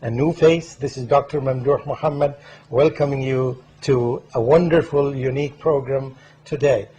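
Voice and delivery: loud, emphatic welcome to viewers; show-opening host introduction. Real, not acted. Host welcoming viewers to the program, loud presenter delivery. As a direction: project a proud introduction of the guest.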